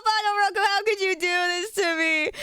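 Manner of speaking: high, slow cartoon-style voice; put-on voice. Dreading doing the voice in front of friends. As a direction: whine it in a silly character voice. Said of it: "make me do that voice".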